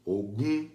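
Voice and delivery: Ogum rising to a held final syllable; tone variant. Shown as a demonstration. Teacher showing forms of pronouncing Ogum, rising tone. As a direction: lift the end of Ogum from a mid start. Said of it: "conforme muda a acentuação, muda tudo".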